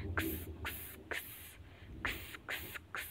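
X as a voiceless "ks" sound; phonic sound. Shown as a demonstration. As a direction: say X as a whispered "ks", not the letter name. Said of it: "we will pronounce it with phonic sound".

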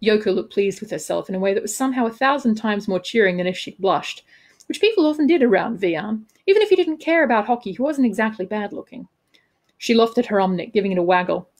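measured, expressive audiobook reading; story narration. A narrator's reading. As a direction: narrate the scene with crisp dramatic phrasing. Author reads own novel aloud.

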